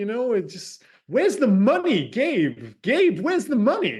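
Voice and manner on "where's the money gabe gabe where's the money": slow, high-pitched celebrity impression; Christopher Walken. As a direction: stretch the words in a swooping, halting impression. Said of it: "a lot better than your Cockney Walken".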